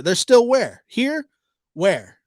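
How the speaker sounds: sarcastic bafflement, pushing the question; mock confusion. Vlogger sarcastically questions her words, mock puzzled. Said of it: "And there's a pause".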